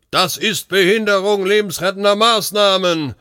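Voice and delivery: loud, high-pitched outraged yell; angry bellow. A narrator's reading. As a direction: roar it out high and indignant. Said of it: "brüllte er".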